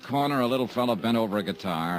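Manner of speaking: dry detective voice-over; hard-boiled narration. A narrator's reading. Detective recounting his case to the listener, dry narration. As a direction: narrate it like a weary private eye.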